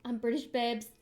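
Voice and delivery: put-on first, restrained try at a British accent; lightly put-on British accent; bad British accent. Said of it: "That was terrible".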